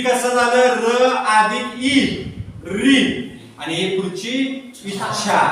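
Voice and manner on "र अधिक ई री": र and ई held long and slow; slow teacher's breakdown, drawing out र and ई; sounding out letters. Shown as a demonstration. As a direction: stretch र, then ई, as separate sounds. Spelling out how री forms.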